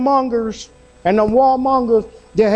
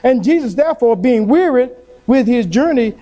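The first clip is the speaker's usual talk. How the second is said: scripture reading. Acted. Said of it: "in verse six, it said".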